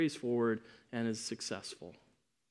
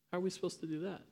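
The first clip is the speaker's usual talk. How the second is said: worried disciple; 5 semitones higher, 9 dB quieter, much faster than usual. Retold or imitated. Disciples voiced worrying together.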